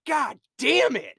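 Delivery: slow, high, loud curse; hammed-up exasperated shout, stretched out; mock furious yell. Officer losing it on a call, imitated angry yell.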